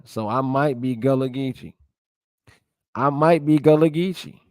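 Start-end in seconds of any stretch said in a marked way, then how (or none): 2.9-4.4 louder and higher, amused and rising; half-joking, realizing something about himself; playful excited realization. Real, not acted. Vlogger jokes that he might be Gullah, excited.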